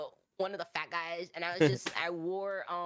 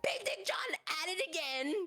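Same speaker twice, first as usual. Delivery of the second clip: character voice; 11 semitones higher than usual. Acted. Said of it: "I get into character".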